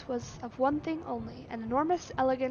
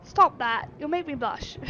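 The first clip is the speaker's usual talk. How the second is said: giggly; 3 semitones higher, 7 dB louder than usual. Acted. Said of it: "she giggled".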